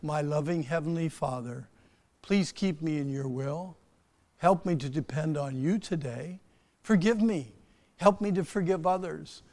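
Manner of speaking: group prayer, said out loud; praying aloud together. Shown as a demonstration. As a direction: pace it so everyone can pray along. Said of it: "Would you pray this with me out loud?".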